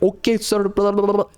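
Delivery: a faint Indian call-center agent voice; mock Indian accent. Caller mocking the Indian agent with a faint Indian accent. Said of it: "they speak their broken English".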